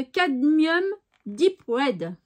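English colour name in a French accent. Real, not acted. Painter reading a colour name to viewers, French accent. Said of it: "Avec mon accent".

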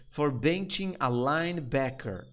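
slow, careful phrase; slow demo. Shown as a demonstration. Teacher breaking down the line, slow. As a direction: give each word room. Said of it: "ele gritou comigo por quê?".

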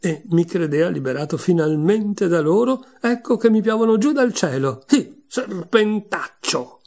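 distraught pigeon crying out at last; desperate cry. A narrator's reading. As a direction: build to a desperate outburst. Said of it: "con un grido disperato".

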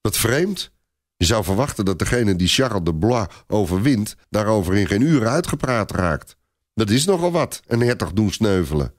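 exclaiming knight. Acted. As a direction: knight bursts out in surprise. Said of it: "een van zijn ridders roept uit".

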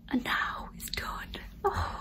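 choked, whispered through tears; breaking down with relief as it sinks in; real crying, barely voiced; happy tears. Real, not acted. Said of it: "this is happy tears".

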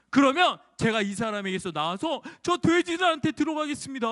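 a whiny demon begging for mercy; pleading demon. Acted.

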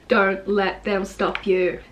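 slow, even "Don't let them stop you"; even, deliberate repeat. Shown as a demonstration. Poet repeating a line for emphasis, slow and even. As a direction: say it slowly at normal pitch, evenly spaced. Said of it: "repeating the lines in different ways".

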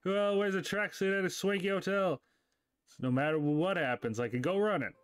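lightly voiced exasperated buddy; complaining dude character.

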